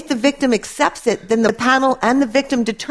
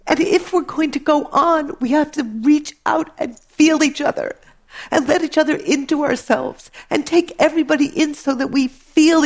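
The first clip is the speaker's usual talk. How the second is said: tearful pleading; 5 semitones higher than usual. Real, not acted. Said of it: "I'm sorry I'm crying".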